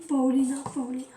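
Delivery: put-on sing-song foreign accent on the name Paulina; lightly exaggerated foreign accent. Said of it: "je fais cet accent".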